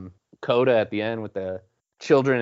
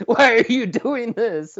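higher, slow, incredulous whine; 5 dB louder than usual. Retold or imitated. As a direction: whine it up high in disbelief. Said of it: "I remember thinking".

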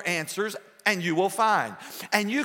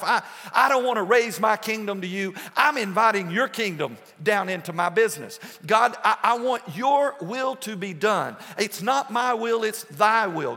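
preaching prayer; 2 semitones higher than usual. Acted. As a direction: preach the prayer at full force. Impassioned prayer to God.

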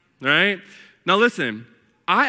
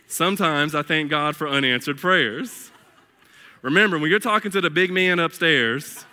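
lower-pitched country twang, played for a laugh; country accent; 4 semitones lower than usual. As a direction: read it like a country singer talking. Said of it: "can't even read it without a country accent".

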